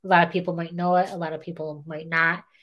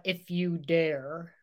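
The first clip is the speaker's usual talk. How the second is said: spooky host voice; 5 dB quieter, slower than usual. Retold or imitated. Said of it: "you know how Dax always does the".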